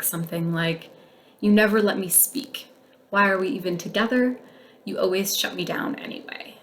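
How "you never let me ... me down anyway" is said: blaming tone. Shown as a demonstration. Blaming a partner who cuts you off, mildly accusing. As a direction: point the finger at them. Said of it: "a blaming, um, conversation might look like".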